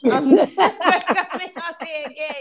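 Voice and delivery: giggling out the line; laughing through words. Real, not acted. Repeated while laughing.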